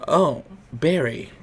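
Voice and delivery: slow, soft mishearing; creepy old man mishearing a name. Retold or imitated. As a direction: drawl out the wrong name. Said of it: "And he goes".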